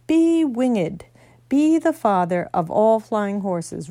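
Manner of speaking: a solemn order that shakes the ground; roared command. Acted. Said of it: "roared Aslan".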